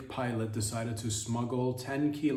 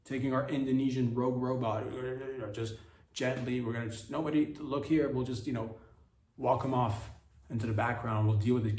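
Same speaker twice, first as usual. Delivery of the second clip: mocking handlers. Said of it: "these handlers were just like".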